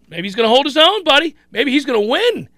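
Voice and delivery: mock dawning belief; rising hope. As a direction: let hope lift the pitch. Fan's growing hope voiced.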